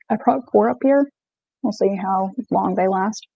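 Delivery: eating cookies while talking; crunching while talking. Real, not acted. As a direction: talk through a crunchy bite. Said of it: "Sorry for the crunching".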